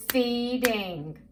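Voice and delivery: "Feeding" split into fee, ding; syllable by syllable. Shown as a demonstration. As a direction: say "Feeding" as two measured beats. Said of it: "we're gonna break the word ap-, apart".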